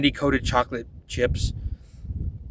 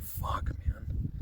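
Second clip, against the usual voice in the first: frustrated mutter under breath; 10 dB quieter than usual. Retold or imitated. Frustrated aside after plans fall through.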